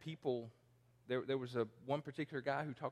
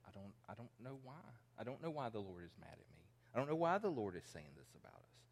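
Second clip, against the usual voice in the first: feigned innocence; 5 dB quieter, faster than usual. Retold or imitated. Mocking Israel's feigned innocence.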